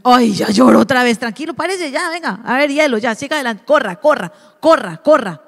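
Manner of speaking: brisk, impatient brush-off; a cold parent pushes the crying child on, brisk and impatient; dismissive parent. Shown as a demonstration. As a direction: hurry the child past the tears. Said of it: "Y no".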